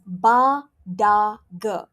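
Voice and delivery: ba, da, ge said with voiced stops as the common mistake; wrong unaspirated b d g. Shown as a demonstration. Teacher showing the wrong ba da ge. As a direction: show the wrong way: ba, da, ge. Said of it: "That is not right".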